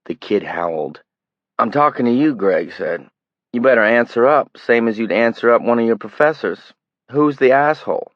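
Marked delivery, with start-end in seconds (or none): 1.6-8.1 louder, higher demanding menace; harsh demand. Acted. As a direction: press him hard. Greg interrogating the kid.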